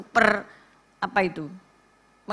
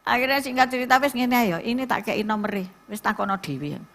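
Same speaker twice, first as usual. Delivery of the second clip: ordinary talk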